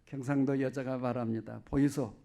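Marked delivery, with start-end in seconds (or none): 1.6-2.1 slow, coy Gyeongsang dialect woman asking; a Gyeongsang wife coaxing her husband, drawn out and sweet. Acted. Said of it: "제가 경상도 말로 해보겠습니다". (애교 섞인 느린 경상도 사투리 여자 말투)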